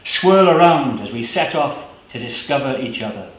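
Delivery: measured, unhurried poetry recital; poem reading. Acted. Poet reading his own poem to the audience, measured. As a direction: let each image land slowly.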